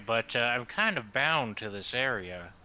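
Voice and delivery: lightly drawled southern voice; southern accent. Acted. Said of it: "Why is Aesir suddenly southern?".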